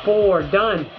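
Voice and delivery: muffled behind clear visor; speaking inside sealed respirator; through a face mask. Real, not acted. Seen 0: Clear full-face respirator covers mouth throughout, removed after 7.5 s.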